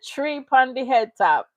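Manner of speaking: mocking fake Jamaican accent; a hint of Jamaican patois; imitated Jamaican accent. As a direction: tease his attempt at a Jamaican accent. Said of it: "The Jamaican accent was so terrifying".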